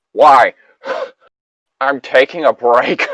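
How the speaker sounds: a high, loud whine with a sigh; whiny Sam. Retold or imitated. Sam whines back at the group with a high sulky sigh. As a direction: complain like a sulky kid.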